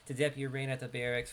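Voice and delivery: relaxed New York accent read; easy New Yorker delivery of the quest text. Shown as a demonstration. Streamer reads the quest objective in his natural New York accent. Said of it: "it's better to talk like this".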